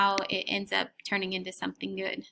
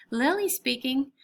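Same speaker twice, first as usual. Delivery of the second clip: grown-up professional voice; 4 semitones higher than usual. Acted. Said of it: "my most grown-up professional voice".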